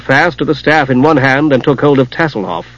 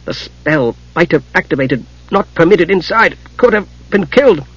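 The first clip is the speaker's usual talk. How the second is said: short of breath, shaken; 4 semitones higher than usual. Acted. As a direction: gasp it out after a scare. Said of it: "Palin was having difficulty breathing".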